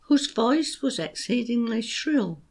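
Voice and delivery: put-on beats marked on young, teddy, Bill; stressed rhythm. Shown as a demonstration. Teacher showing parents the beat, stressed. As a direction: tap out the rhythm of "There was a young teddy named Bill". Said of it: "Here's how it works".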